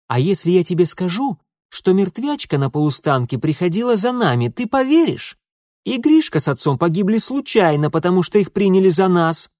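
high, loud, urgent blurting; pleading to be believed; desperate outburst. A narrator's reading. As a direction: blurt it out desperately, building to a shout. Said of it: "отчаянно выпалил он".

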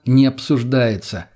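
slow, firm interruption; sharp cut-off. Acted. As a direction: shut her down flatly. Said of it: "резко прервал её я".

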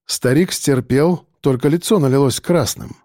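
plain reading voice

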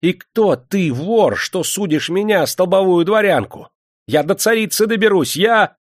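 high, loud, furious protest; choking with rage. A narrator's reading. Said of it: "задыхалась от гнева и ярости". (в гневе и ярости)

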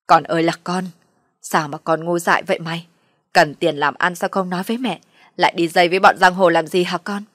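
lamenting, chiding mother; reproachful scolding. Acted. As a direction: scold a son out of worry. Mother scolding her foolish son.

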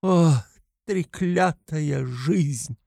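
медленный высокий отчаянный возглас; протяни проклятие жизни в отчаянии; с отчаянием. A narrator's reading. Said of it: "с отчаянием воскликнула". (у окна в отчаянии, медленно и высоко)

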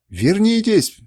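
high, loud call. A narrator's reading. Kernus calls his fleeing men back, high loud cry. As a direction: call them back across the hall. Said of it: "призывал их Кернус".

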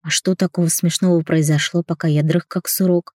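ordinary delivery, nothing marked

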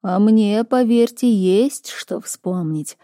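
slow, otherworldly oracle voice; drawn-out, distant seer speaking; prophetic trance voice. Acted. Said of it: "раздался голос Оракула".

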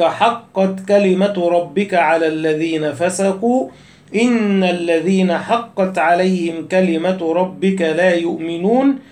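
slow, measured chanted recitation of the verse; Quran recitation. Acted. Teacher reciting a verse to his students, slow measured chant. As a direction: draw the verse out like tarteel.

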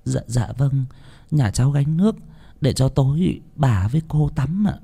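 meek servant answering softly; humble servant. Acted. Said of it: "Chị Lý đáp". (giọng người hầu khúm núm, nhỏ nhẹ)

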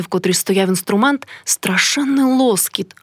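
ordinary delivery

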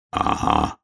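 puffing out a breathless aga; the bear cub short of breath while running. Acted. Bear cub carrying the hedgehog, answers out of breath.

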